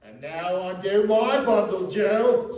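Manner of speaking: high, loud brazen command; first woman. A narrator's reading. First woman to Joe, high loud brazen voice. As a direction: order it boldly. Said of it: "said the first woman".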